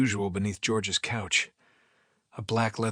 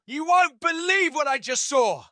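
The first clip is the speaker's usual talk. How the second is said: excited; 5 dB louder than usual. Acted. Kramer bursts in excited.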